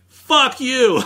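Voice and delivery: mock shocked outburst; retold outburst. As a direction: blurt it out like a shocked expert. ATF investigator reacts to arson method.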